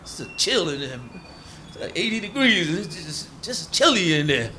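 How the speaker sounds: a hint of an uneasy outsider; mock complaint. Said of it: "they say".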